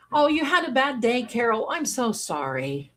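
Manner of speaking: real, tender commiseration; sympathetic. Real, not acted. Consoling a viewer after a bad day, sympathetic.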